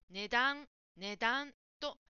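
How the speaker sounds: 値段 with no push on だ, slowed; 値段 without English stress; correct pitch model. Shown as a demonstration. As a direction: repeat 値段 evenly and slowly. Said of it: "「だ」のイントネーションが強くならない".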